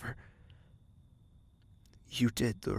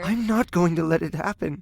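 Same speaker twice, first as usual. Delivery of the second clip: louder and higher, determined; firm insistence; 7 semitones higher, 5 dB louder than usual. Acted. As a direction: refuse to accept it, voice rising. Firm protest in argument.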